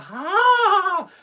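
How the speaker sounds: high burst of laughter; laughing. Real, not acted. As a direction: crack up mid-story. Laughing at own story.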